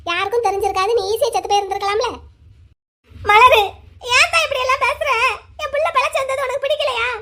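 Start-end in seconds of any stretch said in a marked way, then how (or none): 3.3-3.6 loud wailing call of a name; anguished cry. Acted. A mother cries out to her elder daughter in a loud wail. 4.1-7.1 high, sobbing plea; weeping mother. Acted. A mother begs her elder daughter through tears, high and sobbing.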